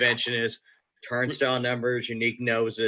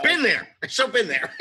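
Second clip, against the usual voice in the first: laughing; 10 semitones higher than usual. Real, not acted. Laughing knowingly.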